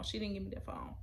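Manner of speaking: breathy hushed repeat; whisper. Shown as a demonstration. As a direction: drop to a whisper for the phone. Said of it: "repeated as a whisper".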